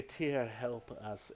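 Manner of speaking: slow, hushed plea to a god; a nervous cleric praying under his breath; slow, hushed appeal to Tyr; muttered prayer. Acted. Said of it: "you hear one of them say".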